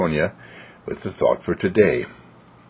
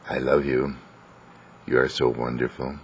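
soft, low, tender murmur; gentle mock whisper; 5 semitones lower, 7 dB quieter than usual. Parents at their child's bedside at night, gently whispering. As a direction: speak softly, as if beside a sleeping child. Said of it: "they whisper in their ear".

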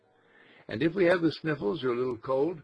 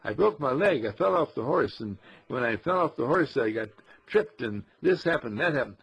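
mock dramatic telling; 3 dB louder than usual. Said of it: "when you tell another person".

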